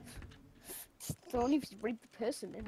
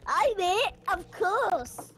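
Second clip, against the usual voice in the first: high voice; 3 semitones higher, 10 dB louder, slower than usual. Pretend. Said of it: "when you do that high voice".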